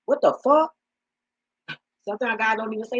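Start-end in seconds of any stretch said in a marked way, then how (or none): 0.1-0.7 high, louder what the fuck; high incredulous. Retold or imitated. Voicing God's reaction to the man, high and shocked. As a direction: shriek it in disbelief. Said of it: "For real".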